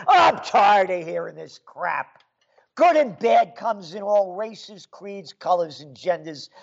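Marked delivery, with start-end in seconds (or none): 0.1-2.2 louder, exasperated shout of disgust; fed-up outburst. Real, not acted. Ranting to viewers, fed up with the crap talk, shouting. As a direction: blow up, sick of hearing it.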